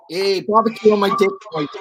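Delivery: put-on Aussie twang; Australian accent. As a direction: try out a mock Australian accent.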